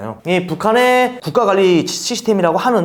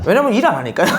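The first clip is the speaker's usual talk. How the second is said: real laughing; 2 semitones higher, faster than usual. Real, not acted. Defector joking that northern jobs are easier, laughing. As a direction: joke breaking into real laughter.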